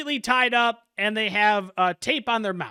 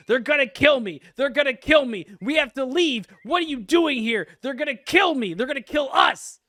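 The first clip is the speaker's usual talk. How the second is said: higher, frantic, pleading cries; tied-up captive begging in panic, higher voice; panicked screaming; 4 semitones higher than usual. Acted. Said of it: "he starts screaming".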